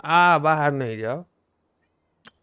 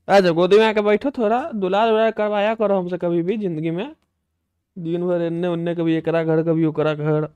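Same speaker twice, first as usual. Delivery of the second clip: higher mock complaint to the cat; mock pleading; 3 semitones higher, 6 dB louder than usual. Real, not acted. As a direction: playfully beg the cat for affection. (बिल्ली से ऊँची आवाज़ में लाड़ भरी शिकायत)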